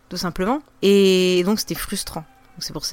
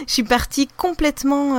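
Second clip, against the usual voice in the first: higher, louder, breaking out of a laugh; amused confession; 7 semitones higher, 5 dB louder than usual. Real, not acted. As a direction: admit it through laughter. Laughing at her own lack of plan.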